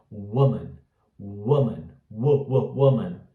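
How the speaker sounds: quick, subtle vowel in "woman"; correct pronunciation. Shown as a demonstration. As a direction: keep the first vowel of "woman" short and lax. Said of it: "Ele é um pouquinho mais sutil". ("woman" com U curto e sutil)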